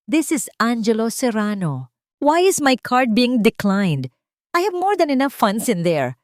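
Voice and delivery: loud angry shout into the phone. A narrator's reading. Angelo yelling at the bank over the phone, loud and angry. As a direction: yell at the bank, furious. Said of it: "Sigaw niya sa telepono".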